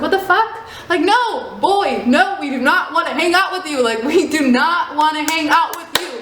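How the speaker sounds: high, heated retold rejection; heated yell. Girl shouting at stalkers she won't chill, high and heated. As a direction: shut the boys down hard.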